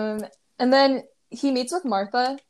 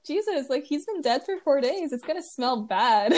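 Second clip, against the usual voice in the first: protesting Martha; 3 semitones higher than usual. Retold or imitated. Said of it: "And then Martha protests".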